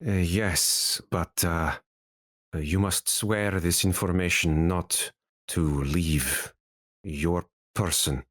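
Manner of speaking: lightly voiced hesitant sage; cautious sage. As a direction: hesitantly ask for secrecy as a sage. GM voices sage demanding secrecy.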